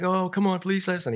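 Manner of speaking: high, whiny begging; kids pleading. Retold or imitated. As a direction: plead like a child wanting a ride.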